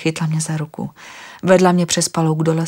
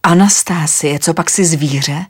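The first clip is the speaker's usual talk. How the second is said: louder, blurted accusation; 6 dB louder, slower than usual. Acted. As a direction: blurt it out in shock. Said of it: "Vyhrkl jsem".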